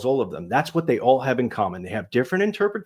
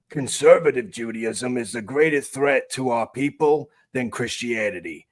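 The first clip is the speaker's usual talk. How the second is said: conservative rabbi voice; 2 semitones higher than usual. Retold or imitated. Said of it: "The other one was the conservative".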